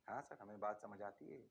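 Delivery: low, soft mock student answer; student reply. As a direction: play a meek student saying yes sir. Teacher voices students.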